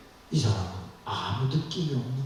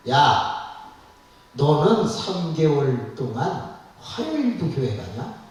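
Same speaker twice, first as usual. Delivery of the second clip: mock husband yelling; 3 semitones higher, 3 dB louder than usual. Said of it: "남편이 소리를 치는 거예요".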